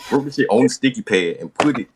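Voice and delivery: laughing. Real, not acted. Laughing while retelling.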